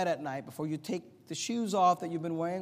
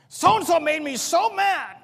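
mock whine; 9 semitones higher, 8 dB louder, slower than usual. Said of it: "People have to say".

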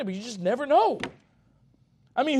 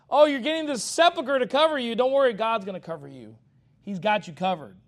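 mock reassure him, tongue in cheek; 2 semitones higher, 5 dB louder than usual. Preacher mocking Shebna's tomb, lightly sarcastic. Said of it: "So it's kind of like".

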